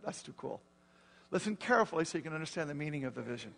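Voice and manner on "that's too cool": softly whispered delight; whispered awe. Retold or imitated. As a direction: breathe it out as a hushed whisper of wonder. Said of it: "I just went".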